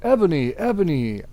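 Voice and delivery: hammed-up worry; worried. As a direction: check on her, worried. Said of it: "in a worried voice".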